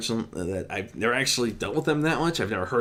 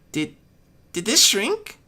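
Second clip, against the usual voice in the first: high, loud puzzled question; baffled, staring at the shrunken hammer; young dragon startled by his hammer; confused; 4 dB louder, slower than usual. A narrator's reading. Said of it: "he asked in confusion".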